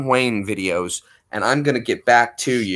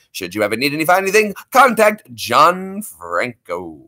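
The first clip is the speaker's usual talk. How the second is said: louder sponsor read, lightly voiced; radio announcer; 3 semitones higher, 3 dB louder than usual. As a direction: pitch him like an ad. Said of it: "Little radio voice there".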